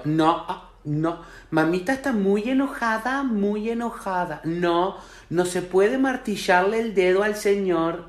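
a lightly voiced mother who can't set limits; meek permissive mother. Permissive mother mildly scolding her son Nahuel. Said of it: "Lo mira lejos y hace".

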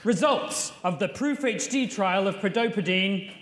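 measured TV headline delivery; newsreader headline. Acted. Co-anchor trading headlines with Jeff, newsreader voice. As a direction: announce it like a news bulletin.

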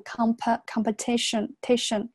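"comp-, competition, tation" with a reduced second vowel; weak vowel in competition. Shown as a demonstration. Teacher showing weak reading, "competition" with unstressed pe. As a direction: keep pe light in "competition", then isolate "tation". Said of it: "这个是一个弱读".

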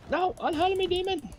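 high-pitched hammed-up protest; melodramatic damsel. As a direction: play a captured damsel, overdone. Melodramatic capture.

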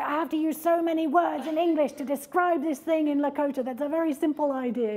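earnest retelling of his words; quoting a friend. Retold or imitated. A hint of the Lakota speaker explaining his language to them. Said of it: "he's like".

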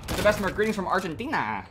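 lilting attempt at an Argentinian accent; mock Argentinian accent; weird put-on accent. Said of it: "Sorry for my weird accent".

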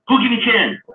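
auctioneer call. Retold or imitated. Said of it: "So he's telling you what he's asking".

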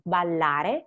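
BALLARE with a long held L, bal-lare; held double consonant. Shown as a demonstration. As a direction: hold the double L in BALLARE for a moment. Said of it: "extend the sound while holding".

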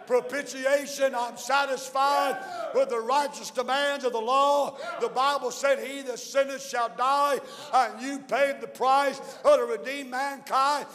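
fervent preacher building and calling out to the church; full-force preaching. Acted. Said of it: "Thank God I could preach all day".

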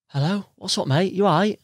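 high, bright mock-friendly hello; cheery greeting. To a drunk stranger at two in the morning, high cheery greeting. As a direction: keep the drunk calm with forced cheer. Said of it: "and I went".

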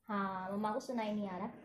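conspiratorial low hush about mama in the kitchen; secretive hush. Real, not acted. Mama in kitchen can't hear.

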